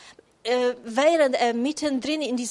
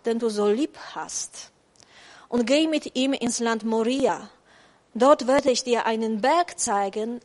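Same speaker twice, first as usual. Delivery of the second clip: scripture reading. Acted. Reads God's command from scripture.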